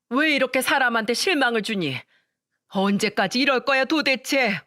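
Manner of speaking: weak scolding. Acted. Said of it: "한껏 힘이 없는 목소리로 동서를 나무라면서".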